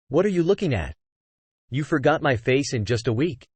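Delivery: short and embarrassed; curt. Acted. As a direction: snap it out, flustered. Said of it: "She spoke curtly out of embarrassment".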